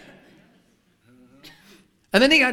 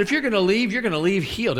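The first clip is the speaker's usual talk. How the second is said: higher, louder preacher's proclamation; commanding declaration; 7 semitones higher, 4 dB louder than usual. Retold or imitated. Preacher to the woman with the cane, louder proclamation.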